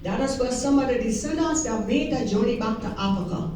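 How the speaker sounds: Gullah dialect, Lowcountry Creole speech. Real, not acted. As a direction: speak in a Gullah Geechee dialect. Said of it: "the speaker speaks in the Gullah dialect".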